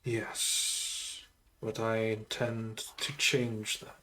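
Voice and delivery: solemn undead sorcerer voice; a measured, brooding lich; lich character voice. Acted. Undead lich tells her backstory.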